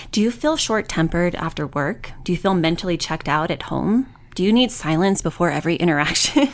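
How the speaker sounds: infomercial. Pretend. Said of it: "I have to say this like an infomercial".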